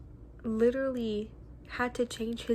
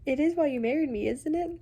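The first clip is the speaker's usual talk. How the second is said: Charlotte's reproach; 5 semitones higher, 4 dB louder than usual. Acted. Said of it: "she said".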